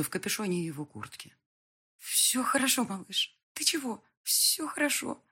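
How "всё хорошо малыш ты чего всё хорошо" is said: soothing. A narrator's reading. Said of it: "пыталась успокоить".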